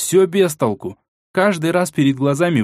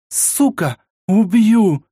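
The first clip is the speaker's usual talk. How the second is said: high-pitched furious scream; enraged threat; 8 semitones higher, 3 dB louder, much slower than usual. A narrator's reading. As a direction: lash out in blind rage. Lunges at guard in rage.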